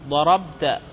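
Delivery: ضربت with a still b and a clear -ta ending; voweled final ta. Shown as a demonstration. Grammar teacher showing the subject ta, ضربت ending in -ta. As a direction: say ضربت as darabta, ending in a short a. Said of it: "كل متحرك".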